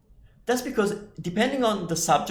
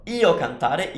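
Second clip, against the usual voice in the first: wrong form, slowed; slower than usual. Shown as a demonstration. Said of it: "that's not right".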